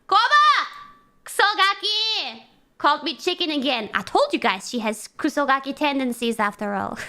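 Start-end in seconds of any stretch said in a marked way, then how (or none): 0.1-2.4 scolding call. Real, not acted. Calling out bratty Kobo.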